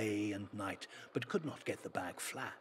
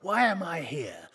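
loud, high outraged question; indignant protest; 8 semitones higher, 12 dB louder than usual. Acted. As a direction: demand an answer at the gate. Magician protesting at hell.

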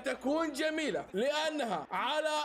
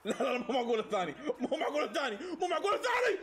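laughing disbelief; faster than usual. Real, not acted. Disbelief at second goal.

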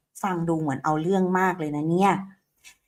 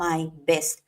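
slow drill; 4 semitones lower than usual. Shown as a demonstration. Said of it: "เราก็จะทำเป็น I did my best".

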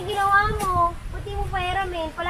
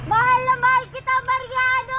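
louder, higher playful shout of love; shouted declaration; 5 semitones higher, 4 dB louder than usual. Pretend. Asked to shout it, a playful loud declaration. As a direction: yell it out for everyone to hear. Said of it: "pagsigawan mo nga".

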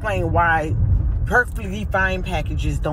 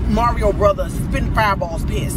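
loud, punchy venting; pissed off; 3 dB louder than usual. Real, not acted. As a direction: spit the words out like fireballs. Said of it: "I'm pissed".

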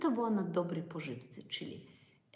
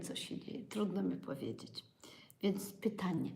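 normal talking voice

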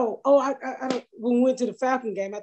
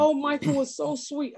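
higher-pitched, lightly voiced fan gushing; gushing reader; 6 semitones higher than usual. Book reader talking about the husband, lightly imitated gushing. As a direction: lightly mimic a reader cooing over a character. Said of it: "They be like".

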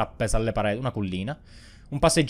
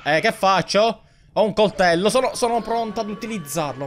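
mock panic; 8 semitones higher than usual. Role-playing panicked threat.

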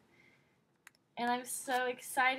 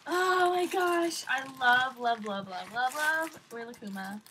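louder drawn-out oh my gosh, then love repeated; gushing; 5 dB louder than usual. Real, not acted. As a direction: gush over the plush. Gushing over the plush.

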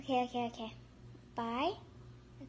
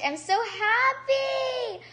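happy; 8 semitones higher, 4 dB louder, much slower than usual. Real, not acted. Delighted with pets.

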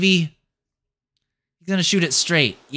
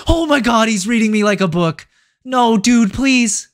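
higher, louder desperate plea; begging the game to spare you; real panic, rushing the words; panicked pleading; 5 semitones higher, 4 dB louder than usual. Real, not acted. Tense penalty shootout, panicking.

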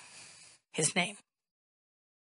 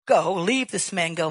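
commanding; 7 dB louder than usual. Retold or imitated. Casting out demon.

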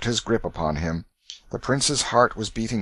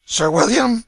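high sleepy call for a servant; calling out in sleep; 14 semitones higher, 7 dB louder than usual. A narrator's reading. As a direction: call out half asleep. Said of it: "he murmured".

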